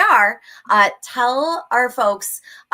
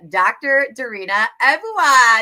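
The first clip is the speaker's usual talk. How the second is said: louder, announce the name with a falling finish; announcer intro; 6 dB louder than usual. Real, not acted. Host introducing her guest to the viewers, announcer style. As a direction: present the guest like a game show host.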